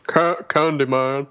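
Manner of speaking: "Candyman" slowly with skewed, foreign-sounding vowels; bad inflection. Podcaster testing whether a botched "Candyman" summons him, bad inflection. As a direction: badly mispronounce "Candyman", drawn out. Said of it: "a very bad, uh, inflection in your voice".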